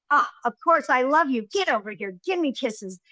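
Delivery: lightly imitated doting mother; affectionate mother. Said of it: "So, and she goes".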